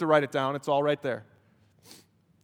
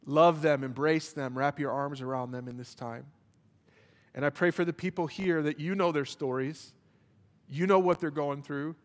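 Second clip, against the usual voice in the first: pastoral prayer. Acted. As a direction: pray tenderly with long pauses. Closing prayer.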